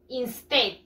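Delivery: Instead said clearly, in-STED; model word. Shown as a demonstration. Teacher saying the word before pupils repeat, clear. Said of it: "Repeat after me".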